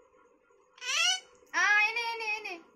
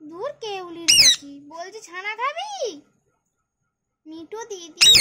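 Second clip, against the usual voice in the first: a loud mock scold at the cat; 2 semitones lower, 7 dB louder than usual. Real, not acted. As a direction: snap at the cat in fond annoyance. (বিড়ালকে জোরে আদুরে বকুনি)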